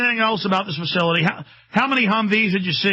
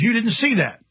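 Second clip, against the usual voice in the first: commander's brush-off; 5 semitones higher than usual. Retold or imitated. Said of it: "and he says".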